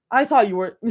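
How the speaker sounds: clumsy attempt at a British accent; very bad fake British accent. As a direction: put on a shaky-quality amateur British accent. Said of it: "Very bad British accent".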